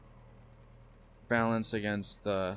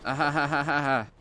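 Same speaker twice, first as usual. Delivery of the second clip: laughing; 3 semitones higher than usual. Real, not acted. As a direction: laugh it out in disbelief. Laughs at repair call.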